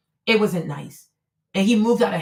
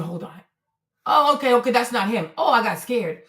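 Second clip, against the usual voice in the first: ordinary talk, nothing marked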